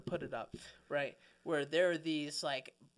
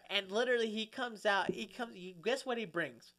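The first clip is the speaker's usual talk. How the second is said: usual speaking voice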